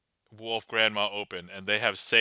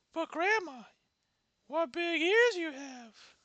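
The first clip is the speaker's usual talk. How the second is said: Little Red Riding Hood. Acted. Classic dialogue by Red.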